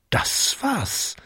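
gehauchte Erkenntnis; flüster die plötzliche Idee; geflüstert. A narrator's reading. Jakob erkennt die Lösung. (Jakob flüstert seine Eingebung)

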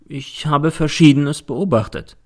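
slow and unbothered; a slow, calm admission. Acted. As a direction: say it calmly, taking your time. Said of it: "sagt er ruhig".

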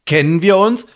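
ironic. Acted. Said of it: "fragt Sam ironisch".

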